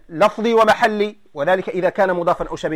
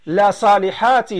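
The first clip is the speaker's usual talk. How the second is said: slow, with a laugh in the voice; amused teacher repeating the joke; slower than usual. Acted. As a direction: chuckle through the example, slowly.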